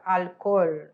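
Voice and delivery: "Alcohol" with the tongue up on the roof of the mouth for the L; low, careful "Alcohol", al-KOL; Spanish alcohol. Shown as a demonstration. Teacher shows where the tongue goes, al-KOL. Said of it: "a língua vai encostar lá no céuzinho".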